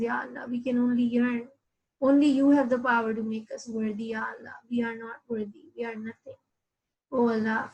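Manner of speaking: heartfelt prayer. Real, not acted. Preacher ending the session with a dua, humble and hushed. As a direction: pray it, humble and pleading.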